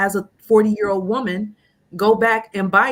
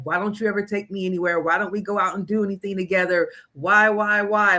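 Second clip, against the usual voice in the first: nagging whine; 3 semitones higher than usual. Retold or imitated. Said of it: "just driving him".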